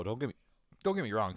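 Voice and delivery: hiccup breaking the words; a hiccup catches the phrase. Real, not acted. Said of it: "Sorry, I hiccuped".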